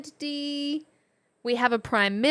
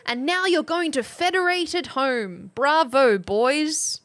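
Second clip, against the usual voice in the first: reading a cartoon caption; 2 semitones higher, 6 dB louder than usual. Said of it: "at the bottom, it says".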